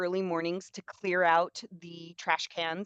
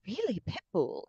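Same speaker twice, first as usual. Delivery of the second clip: mock surprise; 3 semitones higher, 7 dB quieter than usual. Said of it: "She was just like".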